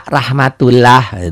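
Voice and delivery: rahmatullah with open A vowels, "rah" and "lah"; spelled with A. Shown as a demonstration. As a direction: say rahmatullah slowly, just as the Latin spelling has it. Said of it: "Ini pakai A".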